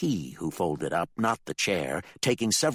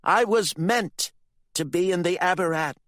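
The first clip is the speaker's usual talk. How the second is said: higher, louder defiant shout; 12 semitones higher, 5 dB louder than usual. Acted. Candy shouts at her father, defiant. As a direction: shout it with everything.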